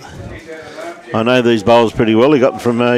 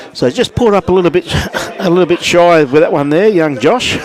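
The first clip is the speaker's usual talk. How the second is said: chuckling through the call, pitched up; laughing commentary; 5 semitones higher than usual. Real, not acted. Commentator laughing at young Josh's short bowl, chuckling. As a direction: laugh it off while calling the bowl.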